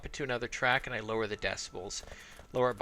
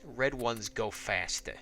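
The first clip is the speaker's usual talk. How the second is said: put-on slow, drawled Boston accent on a gamer's joke; 3 semitones lower, slower than usual. Gamer joking to viewers about orcs, in a slow Boston accent. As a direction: lean into a slow Boston accent, red ones go fastah. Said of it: "I said that with a Boston accent".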